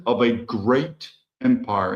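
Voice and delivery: slow, weighty "great" leaned on in "great empire"; stress on great. Shown as a demonstration. Host stressing "great" to his listeners, slow weighty emphasis. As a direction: lean hard on "great" and draw it out. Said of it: "I emphasize the word great".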